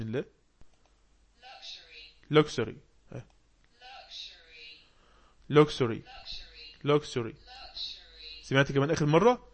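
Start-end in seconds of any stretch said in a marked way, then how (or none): 2.3-2.7 luxury as "LUK-shree", falling; model pronunciation. Shown as a demonstration. Teacher echoing Google's audio, luxury as "LUK-shree". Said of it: "تعال نسمعها كده من جوجل". 5.5-7.3 luxury repeated as "LUK-shree", each falling; model pronunciation. Shown as a demonstration. Teacher echoing Google's audio, luxury as "LUK-shree". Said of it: "تعال نسمعها كده من جوجل".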